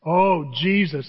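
slow, drawn-out exclamation; imitated groaning brother. Brother reacting to talk of Jesus, drawn-out groan. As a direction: stretch out a mock groan. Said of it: "That's what he says to me".

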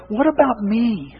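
slow, whiny mock of a selfish person. Preacher mimicking society's self-focus, mildly whiny. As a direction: drag it out like a spoiled complainer. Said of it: "society is bombarding us with".

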